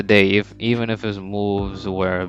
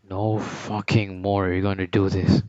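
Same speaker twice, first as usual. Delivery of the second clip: furious rebel turning on his own team; angry outburst; slower than usual. Retold or imitated. Kaiser snaps, cursing everyone.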